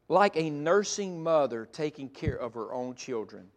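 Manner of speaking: slow, low, tender reading; gentle. Shown as a demonstration. Preacher reading Paul's nursing mother verse, gentle and calm. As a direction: read it slowly and gently. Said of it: "help you feel the gentleness".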